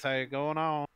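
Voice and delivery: easygoing surfer dude with a Southern lilt; understated Southern surfer. Acted. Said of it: "I'm talking like this".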